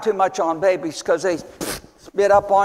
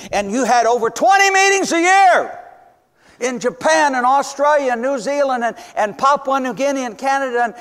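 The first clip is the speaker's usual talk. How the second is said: excited list; 5 semitones higher than usual. Real, not acted. Excited listing of countries.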